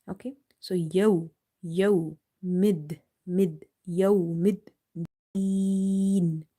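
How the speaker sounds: yaw, mid, deen said slowly in pieces; syllable by syllable. Shown as a demonstration. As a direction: break yawmiddin into syllables. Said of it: "We call such letters lean".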